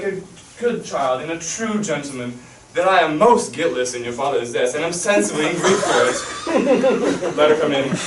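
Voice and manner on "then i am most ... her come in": laughing protest. Acted. King protests innocence, laughing.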